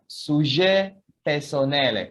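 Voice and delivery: sujet personnel, said slowly in French; French model word. Shown as a demonstration. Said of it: "Can you say sujet personnel?".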